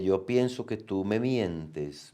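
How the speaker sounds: slow and lingering, leaving "mientes" hanging as if the sentence goes on; trailing suspense. Shown as a demonstration. Teacher demonstrating ellipsis to the class, slow, trailing off. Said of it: "esos tres puntos serían como para dar idea de que la oración sigue".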